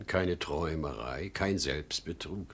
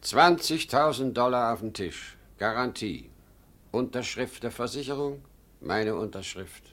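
louder, higher, triumphant; loud boast; 4 semitones higher, 5 dB louder than usual. Acted. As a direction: slam the sum on the table. Father boasts the sum loudly. (laut und triumphierend)

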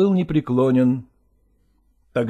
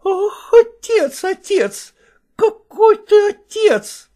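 high, louder, drawn-out reproach; bitter wife's outcry; 6 dB louder, slower than usual. Acted. Wife bitterly reproaching the father, high and loud. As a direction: wail it at him bitterly.

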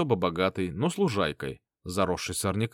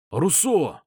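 higher, louder call across the yard; shouting a name; 6 semitones higher, 4 dB louder than usual. A narrator's reading. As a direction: call out sharply to get his attention. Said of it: "крикнул я".

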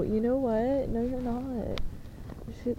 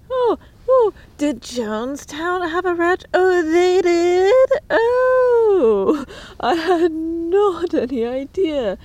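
much higher and louder, squealed fake surprise; sarcastic mock shock; 7 semitones higher, 7 dB louder, slower than usual. Mocking cults with ranches, high squealing fake astonishment. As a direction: gasp it as if this is news to you. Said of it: "I'm shocked".

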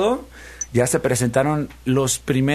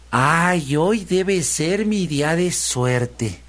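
high, hugely stretched exclamations; exultant piglet; 8 semitones higher, much slower than usual. Acted. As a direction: savour each treat, building higher and slower. Piglet gloats over lucky day. (cerdito dichoso, agudo y alargando cada palabra)

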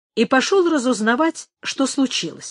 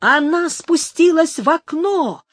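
higher, excited discovery; sudden exclamation; 6 semitones higher than usual. A narrator's reading. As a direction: blurt out the discovery. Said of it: "вдруг воскликнул Фрацко". (вдруг восклицает)

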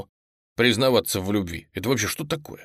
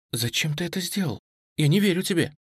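tearful; 7 semitones higher, faster than usual. Acted. Nastya confronts him tearfully.

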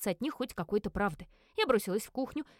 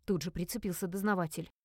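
plain reading voice

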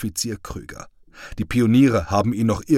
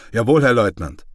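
crisp, louder military Jawohl; a sergeant answering his lieutenant, smartly and louder; snappy reply; 2 semitones higher, 6 dB louder than usual. Acted. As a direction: snap back like a drilled soldier. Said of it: "nun dafür umso zackiger".

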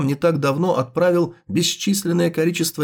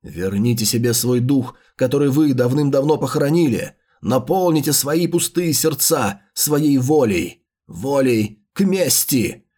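slow theatrical villain menace; 2 semitones lower than usual. Acted. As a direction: command the dead with menace. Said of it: "ты сейчас на сто процентов ведёшь себя как злодей".

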